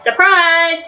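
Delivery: high, gleeful surprise call; shouted surprise. A narrator's reading. Amelia Bedelia echoing the ladies' surprise, high shout. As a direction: read as a high, lightly projected shout. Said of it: "shouted Amelia Bedelia".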